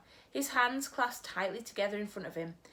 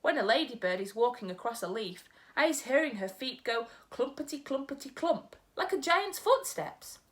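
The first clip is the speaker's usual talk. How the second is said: folksy giant, slightly higher and earnest; BFG giant voice; 4 semitones higher than usual. Acted. Giant telling Sophie about his ears, earnest. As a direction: play the big friendly giant proudly boasting.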